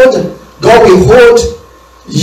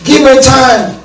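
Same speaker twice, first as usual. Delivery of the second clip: high pleading plea, rising to a shout; pleading servant begs for more time; begging servant; 7 semitones higher than usual. Retold or imitated. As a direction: beg the master desperately for time. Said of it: "He begged".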